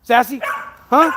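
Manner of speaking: sweet-talking the dog; asking the dog who the happiest dog is, playfully. Real, not acted.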